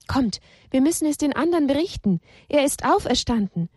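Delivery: quick, high excited telling. Acted. Women hurrying to tell the disciples, fast and excited. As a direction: rush to spread the news. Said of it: "Aufgeregt kamen ihnen drei Frauen".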